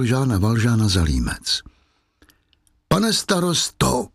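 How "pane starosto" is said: high, slow anguished cry. Acted. Dying Fantine cries out to the mayor, high and drawn out. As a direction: she cries out to the mayor in alarm. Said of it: "vykřikla Fantina".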